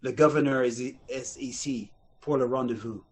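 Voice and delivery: clumsy English-tinged French; bad fake French. Rival actor bluffing the audition line, bad French accent. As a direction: stumble through it in phony French. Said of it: "everybody else was coming in going".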